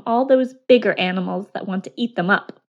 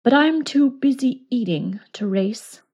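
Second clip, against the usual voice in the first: trickster tale voices; 3 semitones higher than usual. Acted. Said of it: "said the grasshopper".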